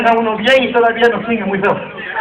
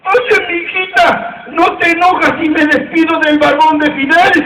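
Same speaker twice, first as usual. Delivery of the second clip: put-on whiny old man; 4 semitones higher than usual. Old man's punchline request.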